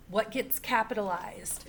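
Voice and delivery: hushed whisper, leaning in to the class; whispered question. Acted. Teacher whispers a question to her students. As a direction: whisper it like a secret clue.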